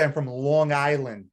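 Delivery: demonstrated Long Island accent, leaning on LONG. Shown as a demonstration. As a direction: show how a Long Island local says LONG ISLAND. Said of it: "you would say".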